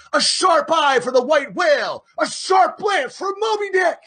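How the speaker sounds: very high, loud rallying cry; crew cheer. Acted. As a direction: chant it like a battle cry.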